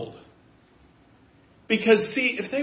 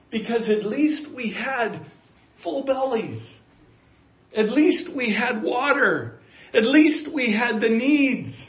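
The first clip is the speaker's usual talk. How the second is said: mock complaint; 5 semitones higher than usual. Grumbling Israelites voiced.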